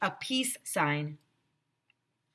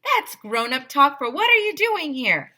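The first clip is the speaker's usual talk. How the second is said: higher, louder explaining aside; excited aside; 7 semitones higher, 6 dB louder than usual. A narrator's reading. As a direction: tell the kids the secret meaning.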